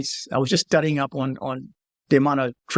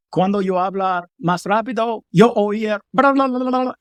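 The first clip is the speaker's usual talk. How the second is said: mock fast talk; 4 semitones higher than usual. Telling locals how fast speech sounds, mock babble. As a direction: tease them with a quick bla bla. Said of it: "I said".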